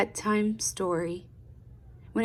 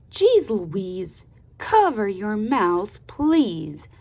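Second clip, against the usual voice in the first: a hint of a cross father, louder; cross daddy; 5 dB louder, slower than usual. Daddy telling off Louise, mildly cross. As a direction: scold like an annoyed dad. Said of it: "Daddy said in a not-so-nice voice".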